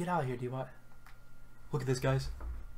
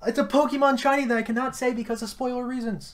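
loud, high thrilled shriek; shrieking jackpot winner; 9 semitones higher, 8 dB louder than usual. Real, not acted. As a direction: scream like you hit the jackpot. Rare shiny appears.

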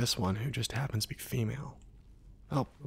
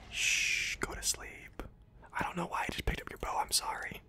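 hushed whisper to a sleeper; whispering over a crib; 5 semitones higher, 5 dB quieter than usual. Acted. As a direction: whisper softly so they stay asleep. Sneaking near sleeping NPC.

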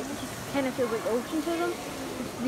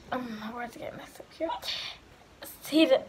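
talking through hiccups; words broken by hiccups; suppressing hiccups. Real, not acted. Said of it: "I can't stop hiccuping".

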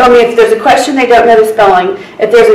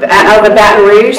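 usual speaking voice

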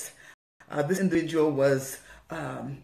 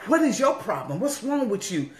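mock angry; 4 semitones higher than usual. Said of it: "Then they were gonna come mad".

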